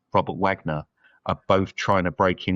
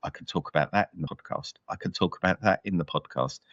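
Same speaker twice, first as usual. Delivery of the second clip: musing to himself; 2 semitones lower, 5 dB quieter, faster than usual. Retold or imitated. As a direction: quote your thoughts as a quiet aside. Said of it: "working out and going".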